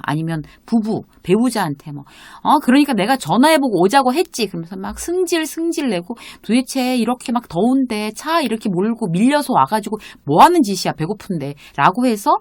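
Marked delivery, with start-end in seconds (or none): 2.4-4.5 mock-annoyed, higher complaint; lightly acted exasperated blame; irritated blame. Grumbling at a spouse outside the closed restaurant, mock irritation. 6.4-11.6 acted irritated complaint, raised then dropping off; mock annoyance. Blaming a companion after a long hot drive, mock annoyance. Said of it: "누군가를 원망하고 막 짜증을 낼 거냐".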